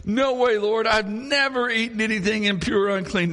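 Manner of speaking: Peter protesting. Acted. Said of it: "He says".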